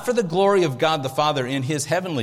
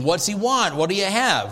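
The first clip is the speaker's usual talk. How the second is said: a touch higher, like a counterman; lightly voiced deli worker taking orders; deli counter call; 4 semitones higher than usual. Pastor imagining Jesus as a deli counterman, lightly voiced. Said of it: "behind that counter with the little white hat saying".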